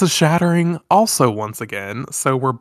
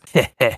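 evil villain laugh. Acted. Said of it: "You're so good at that".

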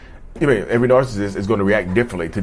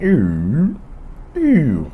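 robot rebooting ooh; 4 semitones higher than usual. Pretend. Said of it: "I'm back".

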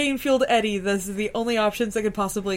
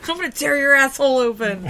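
laughing mock threat; 3 semitones higher, 7 dB louder than usual.

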